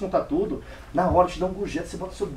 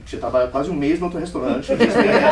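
laughing, bursting louder at the end; laughing through it; 6 dB louder, faster than usual. Real, not acted. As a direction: laugh at your own bluff. Laughs at his own claim. (rindo do próprio blefe)

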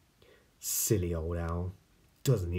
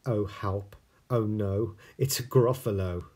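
frightened mouse; 3 semitones higher, 7 dB louder than usual. Acted. Mouse sees gruffalo.

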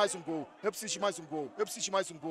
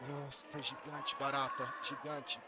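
much softer, lower murmur; hushed awe; 9 semitones lower, 17 dB quieter, slower than usual. Real, not acted. Streamer hushed in awe of his giant goalkeeper. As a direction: breathe it in quiet awe.

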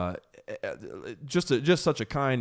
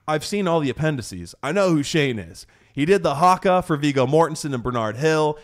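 higher, insistent retold fan excitement; fanboy geek-out; 4 semitones higher, 4 dB louder than usual. Fan telling the family he knows Shane, geeking out. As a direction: reel off the credits like a starstruck fan. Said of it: "I had this little fanboy geek out".

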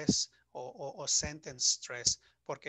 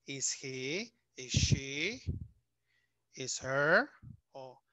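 slow drilled forms; 3 dB louder, much slower than usual. Shown as a demonstration. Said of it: "Cuando vamos a preguntar y estamos utilizando be".

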